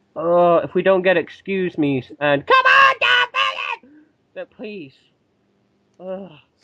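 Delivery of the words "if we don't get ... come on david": mock shouting, louder. Speaker mimics how a woman shouts at David, imitating her shouting. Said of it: "that was a very good um impression there".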